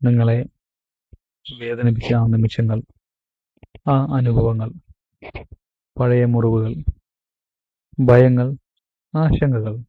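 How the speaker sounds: measured meditation guide with long pauses; guided meditation. Acted. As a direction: guide them into calm, phrase by phrase, stretching key words. (ധ്യാനത്തിലേക്ക് നയിക്കുന്ന ശാന്തമായ ശൈലി, ഇടവേളകളോടെ)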